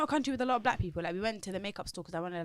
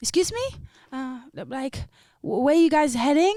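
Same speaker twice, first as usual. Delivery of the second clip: put-on Spanish accent, very loud and high-pitched; 6 semitones higher, 8 dB louder than usual. Retelling what a lady at the airport asked: imitating her Spanish accent. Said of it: "In her, like, Spanish accent".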